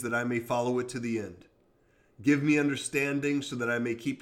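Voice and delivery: measured devotional Bible reading; scripture reading. Acted. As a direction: read the psalm steadily. Reads Psalm 119 aloud.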